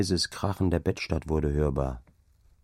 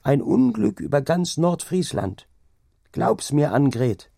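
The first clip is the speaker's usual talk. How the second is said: ominous warning; 8 semitones higher, 4 dB louder than usual. Acted. Angrete quotes Iven Jons.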